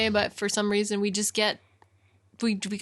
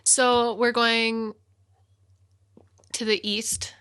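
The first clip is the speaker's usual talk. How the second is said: tag; slower than usual. Real, not acted. Teasing, slow reveal of destination.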